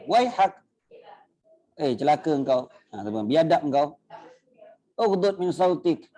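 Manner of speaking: high scolding reprimand; high stern telling-off; stern rebuke. Retold or imitated. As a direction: scold the man sharply. Scolding the loud Bedouin.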